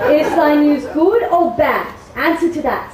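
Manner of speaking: eager, laughing question; laughing impatience. Acted. Impatient for news.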